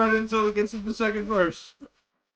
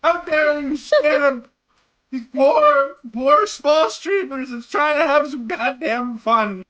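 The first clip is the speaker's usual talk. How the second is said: mock outrage. Player's hammed-up rant at game character.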